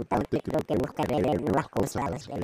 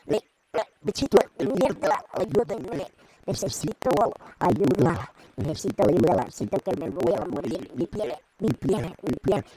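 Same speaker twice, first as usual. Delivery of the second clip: robot voice; 2 semitones higher than usual. Acted. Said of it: "Voz de robot".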